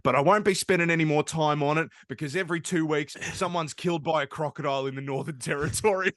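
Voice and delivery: mock politician abruptly turning serious; Bob Katter imitation. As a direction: switch to an insistent politician's complaint. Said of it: "then his tone shifts and he goes".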